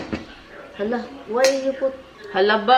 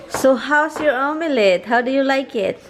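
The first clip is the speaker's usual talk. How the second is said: upbeat host voice; 4 semitones higher, 5 dB louder than usual. Real, not acted. Vlog host asks husband.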